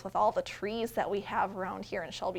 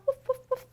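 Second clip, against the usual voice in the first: much higher yappy woofs; little dog woof; 13 semitones higher, faster than usual. Shown as a demonstration. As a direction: bark like a tiny terrier. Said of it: "some dogs like this bark a lot".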